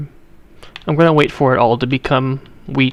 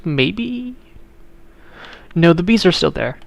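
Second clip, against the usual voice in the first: Kamala riddle voice; 3 semitones higher than usual. Retold or imitated. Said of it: "I can do a Kamala impression".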